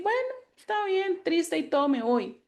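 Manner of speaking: a hint of a toddler giving in; child accepting and going off to play; child's voice. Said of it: "va a decir".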